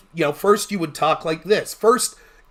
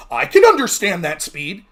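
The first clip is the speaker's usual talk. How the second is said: mock smug judge, louder and pleased with itself; 2 semitones lower, 5 dB louder than usual. Mocking smug debate judges who claim to follow, smug. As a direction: sneer it like a know-it-all judge. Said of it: "smug assholes ... thought they".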